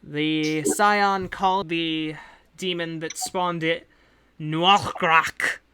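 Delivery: a lightly put-on accent for a composed agent; the employer briefing hired adventurers in her accent; hint of a foreign accent; accent NPC voice. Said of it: "I keep fading in and out of the accent".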